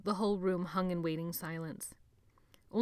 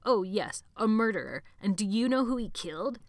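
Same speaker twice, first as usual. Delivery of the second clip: higher, louder cruel glee; gloating taunt; 4 semitones higher, 6 dB louder than usual. Acted. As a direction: rub it in with glee.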